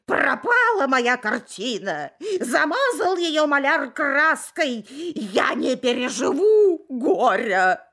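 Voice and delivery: loud, slow, laughing wail; squealing pig. Acted. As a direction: wail over the ruined picture, loud and hammy. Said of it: "Завизжала свинья". (визгливая, причитающая свинья)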